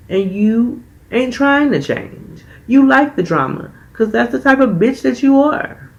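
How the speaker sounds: mock furious, pitch rising to a peak; retold angry outburst. Veronica lashing out at Amara's name, climbing high and angry. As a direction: voice climbing high with each accusation. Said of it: "And here go Veronica".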